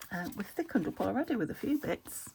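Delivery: talking through hiccups. Real, not acted. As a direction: speak with hiccups. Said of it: "Excuse me, hiccuping".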